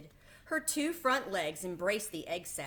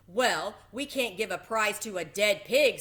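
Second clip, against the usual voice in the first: fair announcer; 2 semitones higher, 7 dB louder than usual. A narrator's reading. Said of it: "said the loudspeaker".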